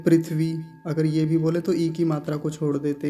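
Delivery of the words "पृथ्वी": पृथ्वी without the इ after थ; wrong shortened form. Shown as a demonstration. Teacher showing another common mistake. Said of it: "कुछ लोग पृथ्वी बोलते हैं".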